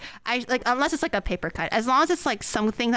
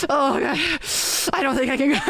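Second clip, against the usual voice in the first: laughing; 3 semitones higher, faster than usual. Retold or imitated. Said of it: "he's just like".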